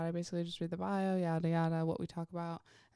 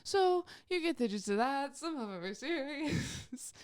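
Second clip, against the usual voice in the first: shaky voice; 7 semitones higher than usual. Retold or imitated. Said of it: "my voice was shaking".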